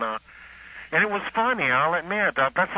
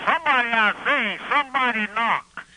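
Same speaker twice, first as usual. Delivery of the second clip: higher, louder blustering senator voice; Senator Claghorn; 8 semitones higher, 3 dB louder than usual. Retold or imitated. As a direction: ham up the pompous Southern senator. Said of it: "And Senator Claghorn".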